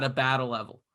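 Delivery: put-on thick Boston accent, dropped r's. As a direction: say it like a Boston hockey coach. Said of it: "I do the traditional accent".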